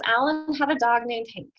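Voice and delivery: lively read-aloud of a sample text. Acted. Teacher reading a sample paragraph to students, read-aloud voice.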